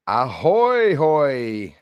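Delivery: hearty pirate hail. Pretend. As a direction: call out like a pirate. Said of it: "a good way to sound like a, a pirate".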